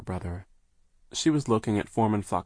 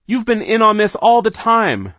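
high furious shout; 14 dB louder than usual. A narrator's reading. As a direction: yell the accusation at him. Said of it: "Violet shouted".

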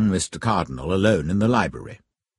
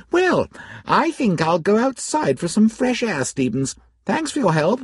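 put-on eager, lifted young man's voice; young gentleman voice; 12 semitones higher than usual. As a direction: play him keen and youthful. Narrator voices young Cardinal.

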